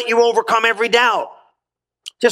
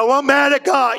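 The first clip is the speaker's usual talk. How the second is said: higher, mock-aggrieved whine; mock complaining; 5 semitones higher than usual. Preacher mimicking people who blame God, mock complaint. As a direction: imitate someone griping, lightly hammed up.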